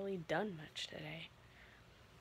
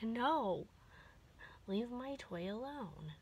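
voicing the dog; 3 semitones higher, slower than usual. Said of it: "she's, like, swatting me with her paw, like".

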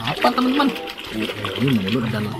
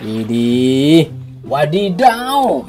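excited; much slower than usual. Acted. Drawn-out exclamation at toy.

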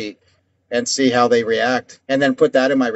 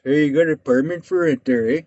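imitated Indian-accented caller. Prank caller asking about a rental, mock Indian accent. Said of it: "I do it in an Indian voice".

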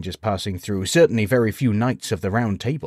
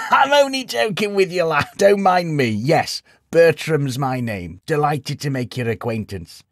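put-on high old man laughing; 6 semitones higher, 4 dB louder than usual. A narrator's reading. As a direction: chuckle through the joke. Old man laughing at his joke.

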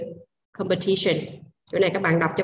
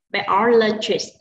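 Biologist said slowly, second syllable "o" stressed: bi-O-lo-gist; drawn out for the class with the accent on "o"; much slower than usual. Shown as a demonstration. Teacher models Biologist for students, slow with the second syllable stressed. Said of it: "Lưu ý chúng ta nhấn cho cô là âm thứ hai".

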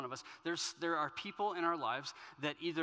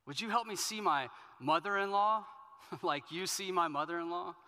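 higher, louder mock-desperate prayer, with a chuckle; joking plea; 5 semitones higher, 7 dB louder than usual. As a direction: play the prayer up for a laugh. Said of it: "I say that kind of jokingly".

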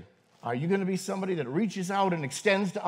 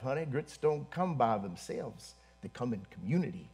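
put-on thick Southern accent; 4 semitones lower, 6 dB quieter than usual. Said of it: "with that Southern accent, you can cut with a knife".

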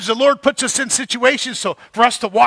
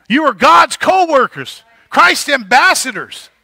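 louder, higher, driving hard on "God's"; emphatic proclamation; 3 semitones higher, 4 dB louder than usual. Real, not acted. Pastor declaring the congregation's calling, loud and emphatic. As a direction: announce "You are God's co-workers" like a banner.

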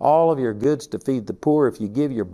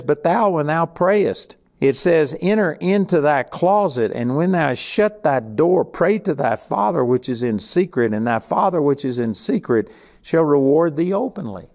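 scripture reading; 2 semitones higher than usual. Acted. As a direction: read the verse out with solemn weight. Reads scripture aloud.

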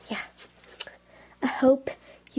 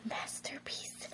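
slow, whispered awe; hushed admiration; 21 dB quieter than usual. Real, not acted. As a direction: whisper it slowly, very softly. Admiring own work.

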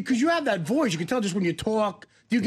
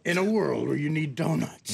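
mock trailer voice; 4 semitones lower than usual. Host parodies trailer opening.

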